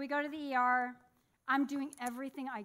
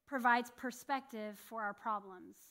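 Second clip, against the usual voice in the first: slow emphasis; slower than usual. Shown as a demonstration. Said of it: "repeated right after".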